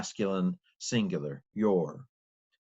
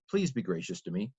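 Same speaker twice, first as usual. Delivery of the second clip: polite request; 2 semitones lower, 4 dB quieter than usual. Shown as a demonstration. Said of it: "it's a request".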